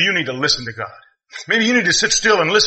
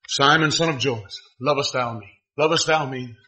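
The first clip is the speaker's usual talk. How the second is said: soft, lower, gentle questioning; tender Jesus; 3 semitones lower, 4 dB quieter than usual. Acted. Jesus asking Simon before the disciples, soft and tender. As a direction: ask it quietly, lovingly. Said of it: "he says".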